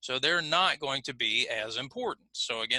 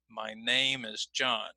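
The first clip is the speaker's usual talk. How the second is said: "name" and "John" clear and strong, "My" and "is" reduced to quick weak syllables, a bit slow; stress on name and John; 3 semitones lower, slower than usual. Shown as a demonstration. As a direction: lean on "name" and "John", swallow "My" and "is". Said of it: "my and is now are going to be reduced".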